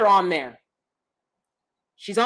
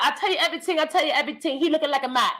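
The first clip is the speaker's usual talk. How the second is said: caricature Asian character; 2 semitones higher, much faster than usual. Retold or imitated. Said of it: "when I did that".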